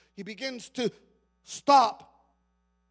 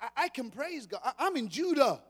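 startled realization; 2 semitones higher than usual. Retold or imitated. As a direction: catch yourself in wonder. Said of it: "He says".

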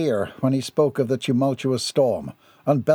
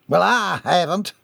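mild, higher-pitched complaint; complaining; 5 semitones higher than usual. A narrator's reading. Mayor left out of the tobacco praise, complaining. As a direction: grumble at being left out. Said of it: "complained the mayor".

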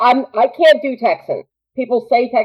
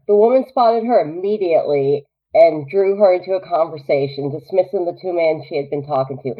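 measured read-aloud narration; story narration; 4 semitones lower, 3 dB quieter than usual. A narrator's reading. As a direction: drop back to an even storyteller's read.

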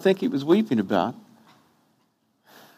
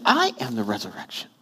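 low, soft "I am the resurrection"; quiet insistence; 7 semitones lower, 5 dB quieter than usual. Retold or imitated. Jesus correcting Martha, a low soft insistence. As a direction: press the point softly. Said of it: "I said".

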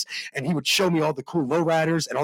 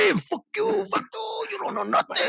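high, tough cholo tough-guy voice; 4 dB quieter than usual. Retold or imitated. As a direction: talk back like a cholo on the Ave. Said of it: "when I do the cholo voice".

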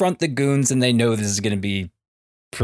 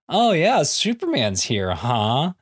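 catty; 5 semitones higher than usual. Retold or imitated. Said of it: "catty little".

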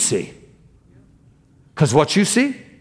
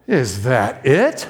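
underwhelmed; 3 semitones lower, slower than usual. Retold or imitated. Woman underwhelmed after prayer.

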